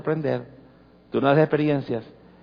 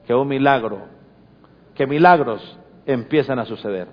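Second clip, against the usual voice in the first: prayer. Acted. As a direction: pray gently over the congregation. Pastor leads closing prayer.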